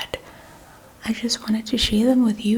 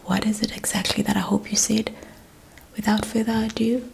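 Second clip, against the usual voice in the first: ASMR whisper. Real, not acted.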